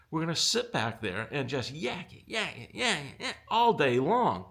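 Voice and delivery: building to a loud, high "Dude"; rising frustration, ending in a loud outburst; exasperated rant. Real, not acted. Ranting about chatty exhibitors.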